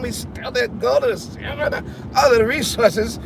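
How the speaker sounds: lightly voiced smug founding father; mock official. As colonizer addressing the nation, lightly mocking. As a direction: play the old-time official being generous. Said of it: "This is how they would say it".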